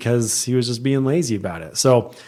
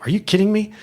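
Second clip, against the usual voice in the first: much higher pitched, incredulous; retold disbelief; 9 semitones higher, faster than usual. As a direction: toss it up in disbelief, imitating Lane. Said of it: "And Lane's like".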